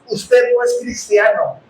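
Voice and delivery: slow, deliberate pronouncement; pastor's firm verdict. Retold or imitated. Preacher quoting what the pastor said on the recording, firm slow verdict. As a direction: quote a preacher laying down a verdict. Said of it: "dijo el pastor Chuy así".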